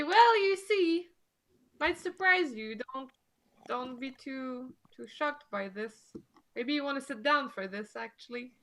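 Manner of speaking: put-on French Canadian accent slipping into the others' accent; lightly mixed French Canadian and borrowed accent. Player eases the local into surprising news, mixed French Canadian accent. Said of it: "I'm starting to take your accent".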